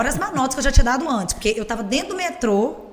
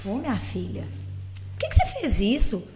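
imitated mother, soft and drawn out; reproachful mother; 5 dB quieter, slower than usual. Mother to daughter who swore on TV, soft slow reproach. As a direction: play a mum gently scolding, slowly.

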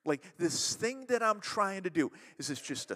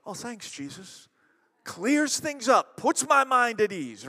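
sarcastic thanks; 5 semitones higher, 8 dB louder than usual. Retold or imitated. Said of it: "To which the disciples are like".

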